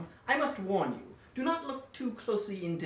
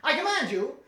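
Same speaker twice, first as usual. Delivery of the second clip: higher and louder, shouting the command; hammed-up evil shout; furious villain order; 7 semitones higher, 8 dB louder than usual. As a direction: bark it at the wax figures. Villain repeats his order.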